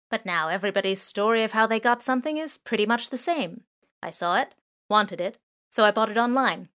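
lightly voiced drone. Drone speech on stories.

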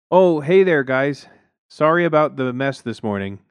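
high, loud awkward greeting; overly chipper apology; caught-out neighbor greeting loudly; sheepish neighbor. A narrator's reading.

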